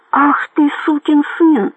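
high, outraged narrated yell; all-out yell. A narrator's reading. Bandit cursing the major below, high-pitched yell. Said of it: "закричал лось изо всех сил".

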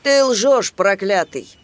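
high, loud angry accusation; fisherman's shout. Acted. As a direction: shout him down as a liar. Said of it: "закричал рыбак". (рыбак гневно кричит на джинна)

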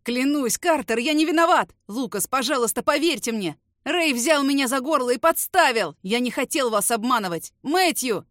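terrified snitch begging, near sobbing; sobbing plea. Acted. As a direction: beg for your life through tears. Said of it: "Захлебывается плачем Фриман".

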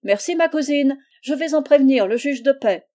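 réplique triomphante, haute et forte; lancé, foudroyant. A narrator's reading. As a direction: lancer sa menace en s'enfuyant. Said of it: "il lui lança cette phrase foudroyante". (phrase foudroyante, criée haut et fort)

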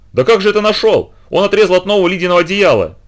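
high, loud indignant shout. Acted. Angry neighbour shouts at the mother about the blanket. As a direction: shout in outrage. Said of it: "закричала Денежкина".

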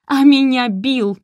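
loud, slow furious cry; losing her temper. A narrator's reading. Oksana, beside herself, yells at the mother. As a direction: break out in anger. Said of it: "вышла из себя Оксана".

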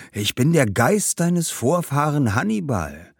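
put-on mildly jubilant old warrior's ghost; overjoyed ghost. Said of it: "der sich vor lauter Begeisterung gar nicht mehr einkriegte". (begeisterter Geist, leicht jubelnd)

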